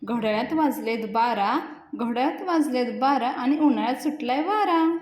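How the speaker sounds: half-joking poetic recital of a silly couplet; reciting a couplet. Retold or imitated. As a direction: recite it like a mock poet performing. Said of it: "शेर ऐकवत असतो".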